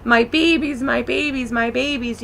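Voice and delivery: high, tearful plea, fading off; a mild imitation of sobbing out my babies; repeated wail that trails away; retold crying. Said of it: "I was crying and crying".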